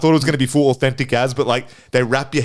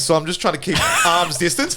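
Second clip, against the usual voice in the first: laughing; 4 semitones higher than usual. Real, not acted. Laughing while telling.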